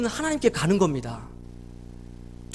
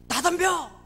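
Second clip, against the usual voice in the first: higher-pitched challenge, only mildly shouted; mock child's shout; 5 semitones higher, slower than usual. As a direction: act out a bullied child suddenly daring the others. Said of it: "막 이렇게 소리를 지르는 겁니다".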